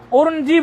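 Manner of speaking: उर्नजी with r before n; mispronounced. Shown as a demonstration. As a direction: put the r first, then n, in उर्नजी. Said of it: "गलती कर देते हैं उच्चारण करने में". (उर्नजी में रेफ पहले, नकार बाद में)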